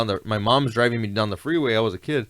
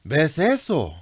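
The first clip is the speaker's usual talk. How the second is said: put-on light Salvadoran Spanish accent; lightly voiced Salvadoran Spanish; 3 semitones higher, slower than usual. Nephew's dad pointing at the sky, light Salvadoran accent. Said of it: "in his Salvadorian accent".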